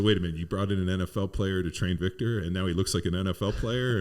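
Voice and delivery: loud incredulous question, climbing at the end; dawning realisation. Retold or imitated. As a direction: imitate onlookers piecing it together. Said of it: "see them putting, like, the pieces together".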